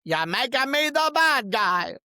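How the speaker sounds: a hint of a Pacino gangster line; Al Pacino as Scarface. Quoting Scarface to viewers, lightly imitated Pacino. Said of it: "You know Scarface, Al Pacino?".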